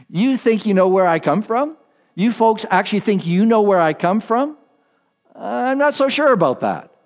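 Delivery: light, mildly ironic questioning, rising; gently mock the crowd's certainty; a touch of dry irony, not quite believing them; ironic Jesus. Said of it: "a note of irony in the tone of Jesus' voice".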